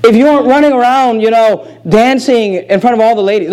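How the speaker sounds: gentle request. Retold or imitated. What a loving wife might say to her husband, gently. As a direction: ask kindly, not accusing. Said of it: "She's not saying".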